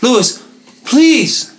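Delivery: a high, drawn-out plea on please; whiny begging. Retold or imitated. Drunk friend pleading with Lewis to hook him up, high whine. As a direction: beg like it's your last hope.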